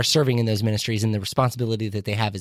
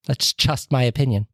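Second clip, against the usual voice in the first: Amish accent. Shown as a demonstration. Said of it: "That was my best Amish accent".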